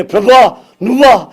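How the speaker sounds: fast, high and loud amazed cry; overwhelmed recognition. Acted. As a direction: gasp out that it is the Lord. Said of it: "అని లేచి".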